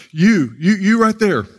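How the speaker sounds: single someone out like an insistent preacher; imitated calling out. Preacher picking out the long-haired visitor, calling out. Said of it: "So he just calls out".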